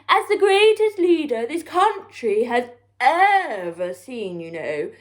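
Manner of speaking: a touch of a self-important prime minister; lightly voiced blowhard; pompous prattle.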